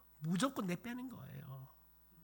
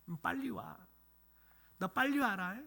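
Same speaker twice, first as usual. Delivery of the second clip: higher, louder mock motherly call; acted calling out; 4 semitones higher, 5 dB louder than usual. Mother with a stick calls her runaway child from the field, calling out.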